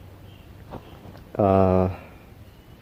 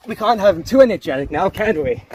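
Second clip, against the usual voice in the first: creepy sing-song; 9 semitones higher than usual. Acted. Creepy aside to audience.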